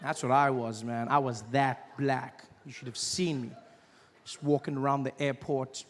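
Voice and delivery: ordinary talk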